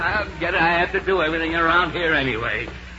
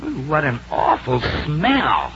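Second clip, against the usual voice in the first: disgusted; slower than usual. Acted. Father notices a bad odor.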